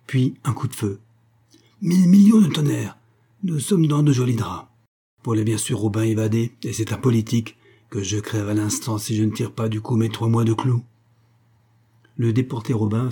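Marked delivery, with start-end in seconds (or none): 1.8-10.8 cursing guard. Acted. Guard curses the escape.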